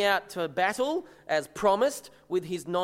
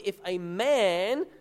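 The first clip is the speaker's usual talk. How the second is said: "man" slow and weighted, louder; stress on man; 4 dB louder, much slower than usual. Shown as a demonstration. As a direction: lean hard on the word "man". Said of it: "it's a very particular word".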